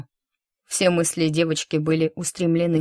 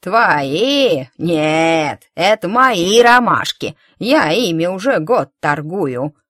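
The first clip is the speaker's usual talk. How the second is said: slow, louder crone, stress on мои; mocking old woman; 7 dB louder, slower than usual. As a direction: sneer "мои" like a greedy old hag. Old woman claims the flowers.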